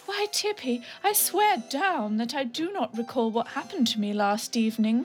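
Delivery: put-on a touch of a giddy young lady; lightly voiced Dilly. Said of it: "Dilly's lines voiced".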